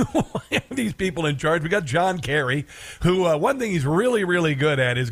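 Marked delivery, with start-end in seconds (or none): 0.1-1.6 asked again through a real laugh; laughing repeat. Real, not acted. Host repeating his question to listeners, laughing.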